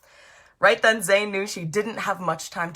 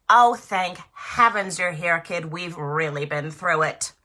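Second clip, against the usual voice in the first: relieved crab voice; 4 dB louder than usual. Acted. Crab greets Zana.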